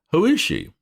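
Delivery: high, loud demand; shrill aunt. Acted. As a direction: snap out the question.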